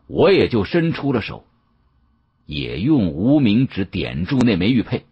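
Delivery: plain reading voice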